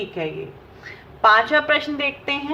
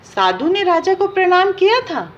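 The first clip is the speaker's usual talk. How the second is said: raised questioning pitch on किया, falling at the end; wrong version as a question; 7 semitones higher, 5 dB louder than usual. Shown as a demonstration. Teacher quizzing students, raised questioning pitch. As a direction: ask साधु ने राजा को प्रणाम किया था as the wrong option. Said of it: "तो ये बिल्कुल गलत है".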